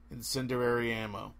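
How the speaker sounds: quiet, flat and calm; cold, emotionless warning. A narrator's reading. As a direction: say it with no emotion at all. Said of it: "his voice calm, emotionless".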